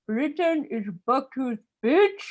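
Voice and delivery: put-on gleeful insult in an Indian accent. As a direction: slip a jab to a friend in an Indian accent. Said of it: "Indian guy would turn to his friend and go".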